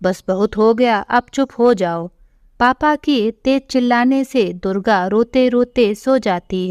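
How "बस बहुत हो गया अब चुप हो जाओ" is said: a mildly raised, stern father telling his daughter off; slightly raised voice. Acted. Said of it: "थोड़ी तेज आवाज में बोलता है".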